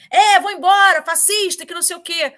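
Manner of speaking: high, loud mock heckle; retold yell, easing off at the end; imitated hateful shouting. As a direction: shout it like an angry activist on a microphone. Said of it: "já tava com ódio".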